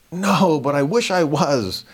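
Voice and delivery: slow, mock-earnest reply; deadpan John. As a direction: wish it with a straight face. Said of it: "turned to John and said".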